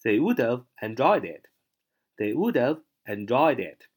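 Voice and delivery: teacher's model reading with "have" weakened; reduced have. Shown as a demonstration. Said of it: "要注意这个读音".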